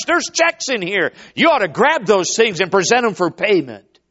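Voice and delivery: rousing, insistent preacher's appeal; impassioned preaching. Real, not acted. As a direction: urge the whole church with punchy emphasis.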